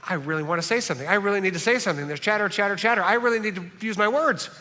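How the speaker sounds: fast, rising chatty rush; eager talker. Retold or imitated. Pastor mocking talkative friends, fast eager chatter. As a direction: mimic an itchy talker bursting to speak. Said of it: "For those of you who are talkers".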